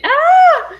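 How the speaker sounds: very high happy squeal; excited squeal. Real, not acted. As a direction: let out a thrilled squeal.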